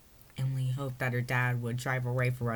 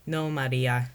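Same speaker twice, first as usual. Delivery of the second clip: bold; 6 dB louder, slower than usual. Acted. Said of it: "said boldly".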